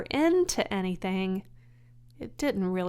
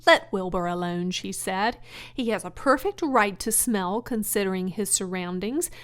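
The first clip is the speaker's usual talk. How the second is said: louder, sharp scolding; 5 dB louder than usual. Acted. Charlotte defending Wilbur from the lamb, sharply. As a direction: snap at the lamb. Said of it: "she spoke sharply to the lamb".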